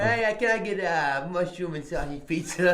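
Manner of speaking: high, slow, laughing imitation of the caller; imitating the pizza video. Friend imitates the funny pizza-order video, laughing. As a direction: lightly mimic the guy ordering pizza, slowly. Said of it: "It's a fucking video".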